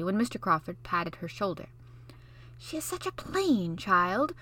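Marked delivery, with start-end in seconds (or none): 2.6-4.3 pitying. Acted. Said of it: "said pityingly".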